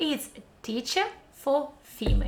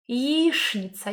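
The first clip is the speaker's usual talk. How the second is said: slow Яичница; 2 semitones higher, slower than usual. Shown as a demonstration. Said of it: "Do you see how we write it".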